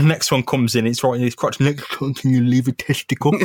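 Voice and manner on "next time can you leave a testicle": lightly strained mock plea; hammed-up hurt request; pained victim. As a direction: plead as if hit in the crotch. Voicing the man hit in crotch.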